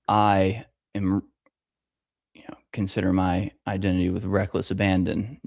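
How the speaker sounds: whispered aside. Real, not acted. Confiding to viewers about identity, whispered. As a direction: let it slip out in a breath, half joking.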